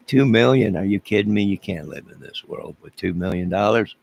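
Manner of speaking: a sneering echo of the people who laugh at him; mocking incredulous quote. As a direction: mimic the scoffers sneering at the sum. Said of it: "people are laughing and saying".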